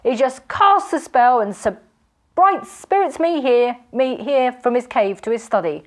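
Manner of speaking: high, loud hearty laughter; jovial laughing robber. A narrator's reading. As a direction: guffaw at your old friend.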